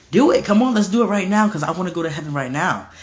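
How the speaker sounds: acted-out eagerness, settling as it goes; eager martyr. Polycarp urging his executioners on, acted eager. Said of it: "he was excited".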